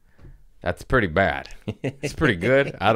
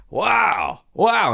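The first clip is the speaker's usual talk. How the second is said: high, delighted wows, the second louder; happy amazement; 14 semitones higher, 4 dB louder than usual. Retold or imitated. Imitating father delighted on arriving, happily amazed. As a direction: imitate someone overjoyed and amazed. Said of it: "He's just so happy".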